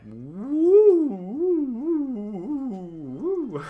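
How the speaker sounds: high, loud cheering woo; excited whooping. Shown as a demonstration. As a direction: whoop it up with full energy. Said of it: "mine go kinda like that".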